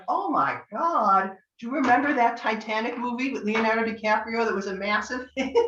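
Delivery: reader stunned, recounting her reaction to the client; amazed. Retold or imitated. Reacting to the film's identity.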